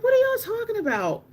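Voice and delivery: high-pitched incredulous question; retold high squeal of disbelief; baffled disbelief. Replays disbelief at friends' claim.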